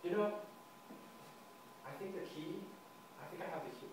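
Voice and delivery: hushed, weighty mock-serious delivery; hammed-up seriousness. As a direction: announce it gravely, with long pauses. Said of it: "in my most serious voice".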